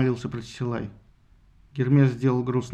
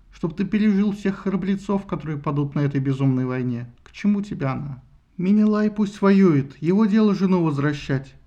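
put-on higher, urgent pleading young wife; 5 semitones higher than usual. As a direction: beg him to stay home. Laodamia pleads with husband.

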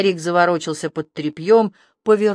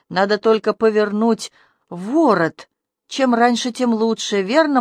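feverish whisper; 2 semitones higher than usual. Acted. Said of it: "продолжал лихорадочно шептать".

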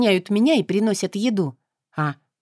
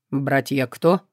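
puzzled demon; 5 semitones lower, slower than usual. Acted. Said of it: "недоумённо спросил демон".

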